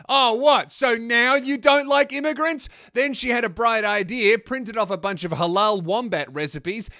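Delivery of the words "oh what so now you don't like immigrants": Pauline Hanson. Acted. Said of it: "Pauline Hanson said".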